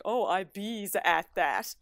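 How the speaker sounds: slow, teasing copy of her Newfoundland bees; a partner's playful mock of "I bees at that"; mocking imitation. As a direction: mimic her dialect to poke fun. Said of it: "he just makes fun of me".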